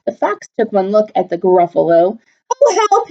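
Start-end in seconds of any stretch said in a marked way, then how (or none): 2.5-3.1 frightened fox. Acted.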